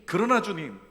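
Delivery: loud declaration for the congregation to repeat; call and response. Shown as a demonstration. Preacher leading the church in repeating, loud proclamation. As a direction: proclaim it so they echo you. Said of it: "우리 한번 따라할까요".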